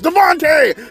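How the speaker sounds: high mock yell at the kids; old man yelling. Old man yelling at the crowds, mock yell. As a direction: call out like a crotchety old man. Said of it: "I'm just an old man yelling at the crowds".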